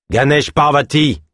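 nail him with his name; calling out a name. A narrator's reading. Guard calls fugitive by name.

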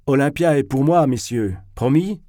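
loud, high call to his friends; boisterous claim shouted to the group. A narrator's reading. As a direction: crow it out, rising on the question. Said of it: "cria Zverkov".

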